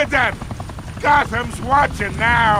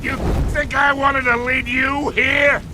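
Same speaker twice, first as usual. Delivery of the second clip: defiant shouting. Acted. Gangster yelling back at Batman.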